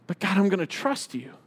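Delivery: softened prayer to God; hushed, prayerful resolve; quiet trust. Acted. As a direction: settle softly into trusting.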